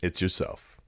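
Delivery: soft, low Scottish sign-off in the voice of Grado; Scottish catchphrase. Retold or imitated. Leaving the call with Grado's Scottish line, quiet. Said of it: "I'm gonna say one thing".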